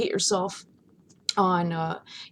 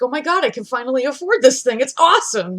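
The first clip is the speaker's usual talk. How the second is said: retold excitement; 5 semitones higher, 9 dB louder than usual. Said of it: "I was like".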